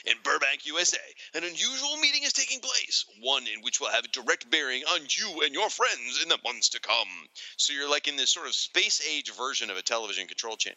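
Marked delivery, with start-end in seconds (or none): 0.1-7.3 lightly voiced trailer announcer; dramatic ad read. Host reading the comic ad's opening as a mild announcer. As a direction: read it like a movie trailer narrator. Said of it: "It says".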